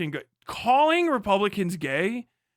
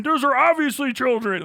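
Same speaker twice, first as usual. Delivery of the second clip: higher, louder whiny insistence on "obviously"; mock accuser; 5 semitones higher, 4 dB louder than usual. Mimicking accusers' voice, higher and louder. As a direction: parody the outraged commenter, pushing "obviously". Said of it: "People are like".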